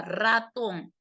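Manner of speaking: ratón with the weight on TÓN; stress on last syllable. Shown as a demonstration. Teacher showing students an example word, ratón stressed on tón. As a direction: say ratón, leaning on the final syllable. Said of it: "llevan la mayor fuerza de voz".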